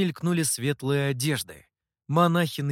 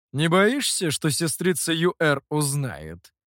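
с усмешкой; slower than usual. Acted. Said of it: "усмехнулся Гуэй".

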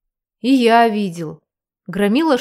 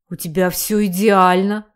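deep rumble. A narrator's reading. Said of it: "пробасил тот в ответ".

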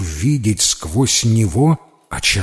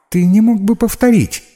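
much higher, louder, polite little voice; 12 semitones higher, 6 dB louder than usual. A narrator's reading. Ghost politely asks Max to repeat. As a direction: ask nicely. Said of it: "вежливо сказала оно".

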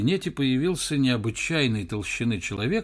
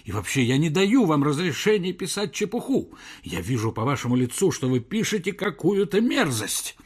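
raised, indignant professor voice; a hint of a howl at the reporter; 4 semitones higher than usual. Professor howls at the pushy reporter, indignant. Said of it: "завыл Персиков".

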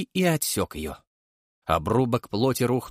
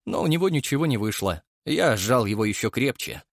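ordinary delivery

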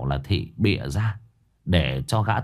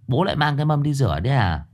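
put-on boy's voice; 5 semitones higher, faster than usual. Boy asks father.

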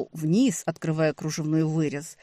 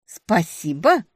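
slow, louder, rising incredulous question; outraged disbelief; 4 semitones higher, 8 dB louder, slower than usual. A narrator's reading. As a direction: throw his word back at him, outraged. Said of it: "Моя очередь возмущаться".

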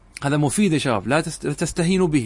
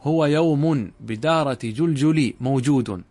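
slow, measured reading of the paraphrase; slow demonstration reading; slower than usual. Shown as a demonstration. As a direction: read it out slowly so they follow. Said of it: "كأنك قلت هكذا".

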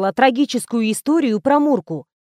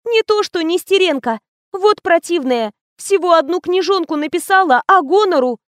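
put-on young assistant gossiping; 7 semitones higher, 3 dB louder than usual.

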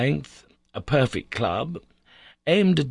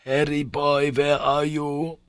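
uncle, low and barely audible; 5 semitones higher, slower than usual. A narrator's reading. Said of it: "in a low and scarcely audible tone".

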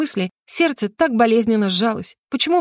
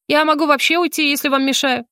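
offended; 6 semitones higher than usual. A narrator's reading. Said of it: "совсем обиделась я".

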